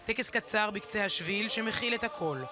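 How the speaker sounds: measured, restrained news-feature narration; documentary voice-over. Acted. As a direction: narrate a solemn memorial report, evenly. Recorded report narration voice-over.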